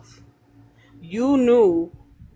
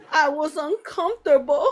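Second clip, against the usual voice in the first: sneering mock quote with a laugh, pitched up; mocking whine; 4 semitones higher than usual. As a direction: parrot her excuse with a scornful laugh. Mocking the mother's excuse.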